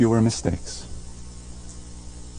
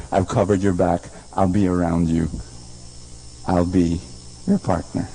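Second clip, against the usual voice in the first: tender voice of God; 4 semitones lower than usual. Acted. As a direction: promise gently that you've got them. God's voice, low and tender.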